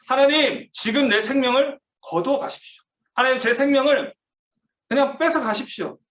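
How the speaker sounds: 하나님께 절규하듯, 절제된 목소리로; anguished outcry. Retold or imitated. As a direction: plead with God in despair, held back. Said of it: "막 절규하면서 하나님 앞에".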